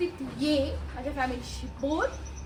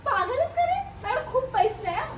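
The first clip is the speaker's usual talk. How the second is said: louder, higher retort; indignant snap; 7 semitones higher, 5 dB louder than usual. Acted. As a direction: bristles at the insult and fires back. Girlfriend snaps back loudly. (चिडून मोठ्याने उलट उत्तर)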